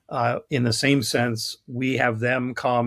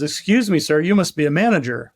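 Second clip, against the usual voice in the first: higher, louder mock hail; calling up; 4 semitones higher, 5 dB louder than usual. Accountant calling up to the man in the balloon, calling out. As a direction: call up to someone overhead. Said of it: "calls up to the man on the balloon".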